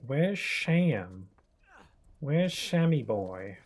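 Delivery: drawn-out, playfully creepy search call. Pretend. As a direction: call for a pet name, mock creepy. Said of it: "Sounds creepy".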